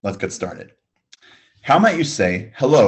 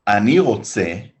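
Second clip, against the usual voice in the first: slow, every syllable laid out clearly; slow teaching demo; much slower than usual. Shown as a demonstration. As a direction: model it slowly so learners can copy. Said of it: "listen and repeat".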